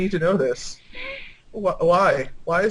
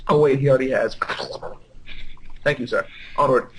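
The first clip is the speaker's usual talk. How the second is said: usual speaking voice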